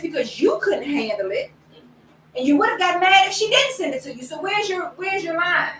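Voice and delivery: high-pitched, pressing questions; exasperated mock interrogation; self-challenge. Challenging herself in retelling.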